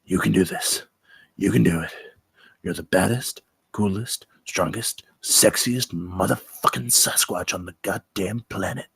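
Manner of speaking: self pep talk. Acted. Bigfoot hyping himself before the shoot, low pep talk. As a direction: pump yourself up under your breath. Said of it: "He's hyping himself up".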